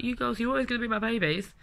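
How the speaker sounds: lightly voiced fond mother; mum's voice. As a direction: gently mimic a doting mum. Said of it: "I remember my mum always saying".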